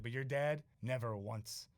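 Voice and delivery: put-on lightly done Boston accent; a hint of Boston in the vowels. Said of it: "He had this, like, Boston accent".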